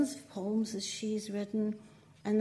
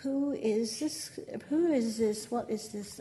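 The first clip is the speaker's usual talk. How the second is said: bewildered who; 2 semitones higher than usual. Retold or imitated. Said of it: "and I'm going".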